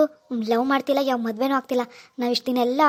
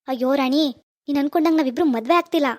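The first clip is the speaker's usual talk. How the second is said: louder, emphatic denial of the wedding; forceful insistence; 2 semitones lower, 4 dB louder than usual. Acted. Raj telling Rani they are not marrying, loud insistence. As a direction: make her hear it, push hard.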